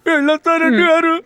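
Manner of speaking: tearful goodbye through sobs; crying farewell. Acted. Accused thief says goodbye to the head constable, crying. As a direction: choke out the goodbye as you cry. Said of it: "వాడంత అలా ఏడుస్తున్నా".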